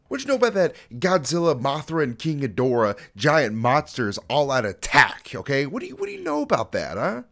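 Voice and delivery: high, loud hype-man shouting at the fans; rally the Mothra fans like a stadium crowd. Acted.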